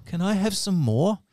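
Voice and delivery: high, slow, meek and pleading; a lightly voiced timid orphan begging. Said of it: "in a very timid voice".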